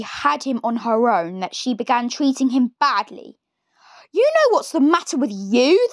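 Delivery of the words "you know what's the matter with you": put-on higher, mean old woman's voice; nasty Grandma. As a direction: sneer it like a wicked granny. Grandma scolds George.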